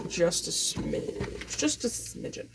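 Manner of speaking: whispered, slow aside to herself. Real, not acted. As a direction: murmur it under your breath, slowly. Quietly to herself cleaning table.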